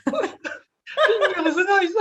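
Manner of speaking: put-on drawn-out word in a jokey English accent, very slow, laughing; mock English accent. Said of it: "Avec mon super accent anglais". (faux accent anglais en riant)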